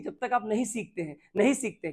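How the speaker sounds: ordinary talk, nothing marked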